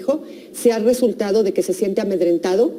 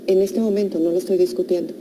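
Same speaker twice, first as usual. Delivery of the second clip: low, quiet, firm refusal to argue; determined; 3 semitones lower, 3 dB quieter than usual. Acted. Parent cuts off child's protest about the bath, determined. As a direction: drop the voice and close the matter. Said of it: "lo digo determinante".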